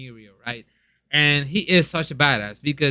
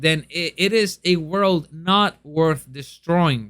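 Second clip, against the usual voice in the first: innocent and heroic. Retold or imitated. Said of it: "oh, in a very innocent and heroic way".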